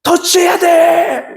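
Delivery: high, drawn-out spectator's yell; urgent shouting. Acted. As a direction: shout urgent instructions from the stands. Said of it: "이렇게 외치고 있는 거예요".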